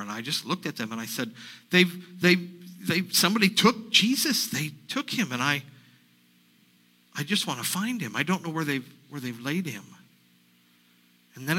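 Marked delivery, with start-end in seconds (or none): 1.7-9.8 distraught plea. Acted. Mary pleads with the angels.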